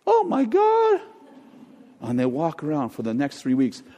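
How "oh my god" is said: high, breathless cry of wonder; awestruck. Retold or imitated. Believer realizing who they are, high awestruck gasp. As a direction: gasp it out like a sudden revelation.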